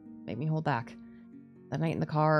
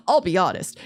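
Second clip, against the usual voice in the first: repeated louder and firmer; 7 dB louder than usual. Real, not acted. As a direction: say it again with more push.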